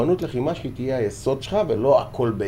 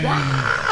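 retold cheer; 12 semitones higher, 3 dB quieter than usual. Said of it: "ואני צועק".

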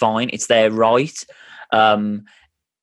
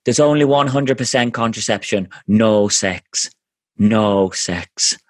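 lightly imitated Irish accent; a loose, self-mocking Irish accent; slower than usual. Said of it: "This is gonna be a bad Irish accent".

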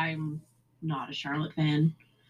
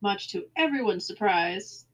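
sarcastic; 3 semitones higher than usual. Real, not acted. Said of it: "note the sarcasm".

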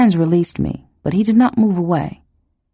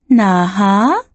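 calling the name as a question; rising call; 5 semitones higher, 4 dB louder than usual. Acted. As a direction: ask his name with a rising tune.

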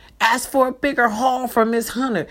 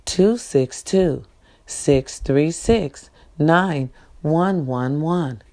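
slow dictation; 5 semitones lower, slower than usual. Shown as a demonstration. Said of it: "The number is".

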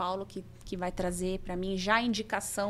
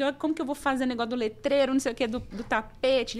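panicked; 5 semitones higher, 4 dB louder, faster than usual. Retold or imitated. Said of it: "porque eu já desesperada".

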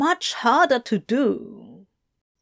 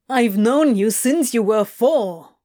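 shouting; 3 semitones higher, 5 dB louder than usual. Acted. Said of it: "Crowley shouted".

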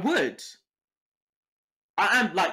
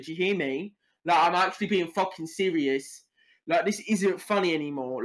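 British tough threatening. Acted. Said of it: "That was my drama performance".

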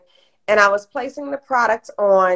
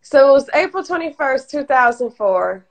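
tearful retelling; 4 semitones higher than usual. Real, not acted. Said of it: "I had a moment right there".

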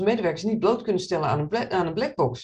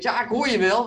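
louder, mildly annoyed retort; imitated irritated reply; 3 semitones higher, 5 dB louder than usual. Colleague answering the third call, imitated irritation. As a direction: call back in mock irritation. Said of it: "roept iemand ook nog heel geïrriteerd".

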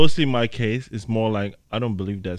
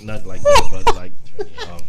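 squeaky laughing instruction, much higher. Real, not acted. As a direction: laugh it out high while giving directions. Laughing instruction about the mic.

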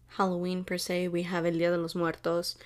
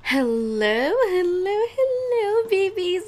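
hello climbing ever higher; high singsong greeting; 11 semitones higher, 8 dB louder, slower than usual. Real, not acted. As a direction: greet them in a rising squeal. Excited greeting to listeners.

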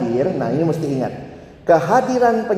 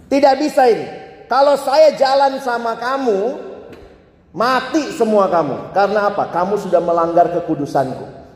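angry God; 5 semitones higher than usual. Acted. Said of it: "Tuhan marah".

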